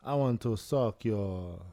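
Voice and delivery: put-on slow vampire seduction with a light Dracula accent. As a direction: draw each word out as a courting Dracula. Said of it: "and he has that accent".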